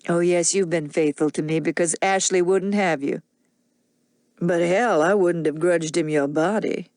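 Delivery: put-on a drunk man confessing jealousy; bitter drunk man. Rhett's mocking bitterness.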